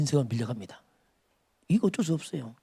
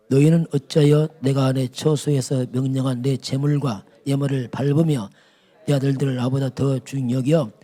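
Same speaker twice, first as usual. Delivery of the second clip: solemn, rebuking read of the verse; preacher reads God's rebuke to Eli; scripture reading; 3 dB louder than usual. Acted. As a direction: read God's reproach with gravity.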